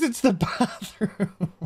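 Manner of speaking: breaking into laughter mid-sentence; cracking up. Real, not acted. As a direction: try to keep a straight face and fail. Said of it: "trying so hard to keep a straight face".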